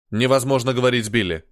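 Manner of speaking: put-on growled in a heavy Slavic accent. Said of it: "с сильным славянским акцентом".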